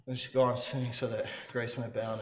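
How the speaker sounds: low, soft, flat statement: "You should go on sinning"; reading a question as if it were advice; misread as a statement. Retold or imitated. Preacher he heard misreading the verse as a statement. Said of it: "A preacher one time read that".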